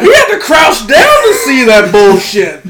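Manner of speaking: loud, high-pitched indignant shouting; worked-up comic tirade; retold angry rant. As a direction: yell it in outraged protest. Retold angry argument with wife.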